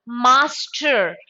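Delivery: "master" in two syllables from a clear "ma"; consonant-sound demo. Shown as a demonstration. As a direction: open "master" firmly on m.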